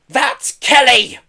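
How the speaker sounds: high, loud, drawn-out bawl. A narrator's reading. Pelly pointing out Kelly to police, bawling. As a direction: bawl out the accusation. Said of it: "bawled Pelly".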